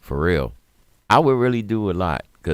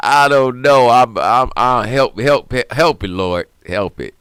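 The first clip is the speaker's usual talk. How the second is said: laughing to keep from crying; 6 semitones higher, 9 dB louder than usual. Real, not acted. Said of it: "I'm laughing, but it's keeping from crying".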